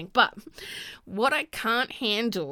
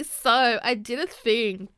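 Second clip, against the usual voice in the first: louder, slow, sing-song caption; mock coy caption; 6 dB louder, slower than usual. Mocking a coy post caption, louder and slow. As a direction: drag out the coy reveal. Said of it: "I don't wanna see".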